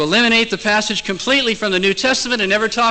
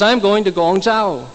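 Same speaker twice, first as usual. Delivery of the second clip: slow, higher-pitched mild mock yell; calling out; 4 semitones higher, 4 dB louder than usual. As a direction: call it out slowly to someone off a way. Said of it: "he yells to the old man".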